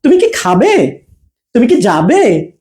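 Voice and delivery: no gap between "তুমি" and "কি"; attached কি. Shown as a demonstration. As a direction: join "কি" onto "তুমি", tune on "খাবে" and "যাবে". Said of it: "অ্যাটাচ হয়ে আর কি আমরা উচ্চারণ করব". ("তুমি"-র সাথে "কি" জুড়ে)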